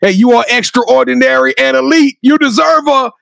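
drawn-out, emphatic proclamation; hype announcer. Real, not acted. Host crowning guest a superstar, hype announcer tribute. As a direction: build the praise up to a high, stretched final cry.

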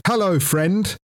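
high sing-out toy greeting; talking Winnie the Pooh. Retold or imitated. Bear doll heard through the wall, imitated high toy voice. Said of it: "I just hear through the wall".

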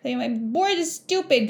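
put-on sulky kid. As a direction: pout it out like a fed-up nine-year-old. Teacher voices sulking nine-year-old.

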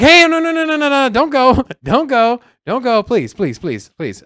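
high, pleading no no no; mock begging. Agent pleading with leaving customer, mock begging. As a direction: beg the customer not to leave, overdone. Insurer begging him to stay.

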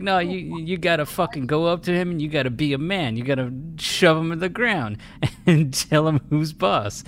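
put-on high, loud New York tough-guy accent. New York customer gives macho advice, in a New York accent. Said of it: "but in a New York kind of accent".

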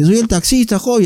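lightly imitated old cabbie, pitched high; loud-talking old man. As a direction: lightly mimic an old driver introducing himself. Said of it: "y hablaba fuerte, pues, se nota que era viejito".

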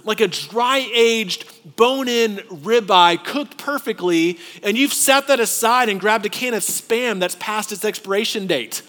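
mock-incredulous apostle; exasperated Paul. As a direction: scold them as if baffled. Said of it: "He goes".

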